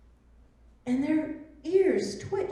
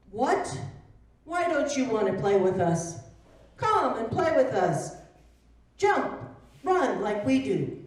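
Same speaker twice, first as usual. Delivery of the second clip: louder, eager little bunny; pushy bunny voice; 5 dB louder than usual. Acted. Bunny taunting the Velveteen Rabbit, loud and eager. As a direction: coax him to come and play.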